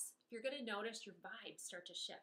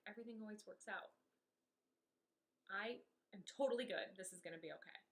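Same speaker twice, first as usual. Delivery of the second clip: calming self-talk. Shown as a demonstration. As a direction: talk yourself gently back to calm. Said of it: "did you notice the natural transition".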